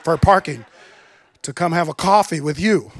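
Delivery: amused mock exasperation; laughing protest. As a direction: grin through the worry.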